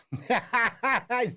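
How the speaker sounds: high rueful chuckle; real laugh. Real, not acted. Trader laughing at his own stopped-out trade, rueful chuckle. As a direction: laughs off the loss.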